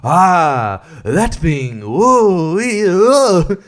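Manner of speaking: hammed-up oohs and aahs; mock wowed. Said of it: "and you're like".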